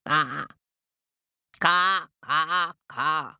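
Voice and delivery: harsh crow caws; calling crow. A narrator's reading. Crow calls up to its chicks, cawing. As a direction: caw out to the nest. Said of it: "called the crow".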